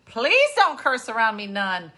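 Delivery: pleading. Retold or imitated. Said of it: "I was like".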